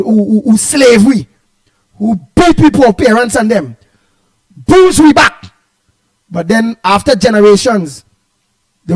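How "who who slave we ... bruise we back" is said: rising anger. Real, not acted. Angry about slavery.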